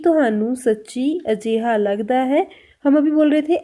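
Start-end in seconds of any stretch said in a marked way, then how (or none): 0.0-2.5 very slow, careful question; slow Punjabi demo. Shown as a demonstration. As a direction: spell it out for learners. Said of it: "Punjabi में कैसे बोल रहे हैं हम". (बहुत धीमे पंजाबी सवाल)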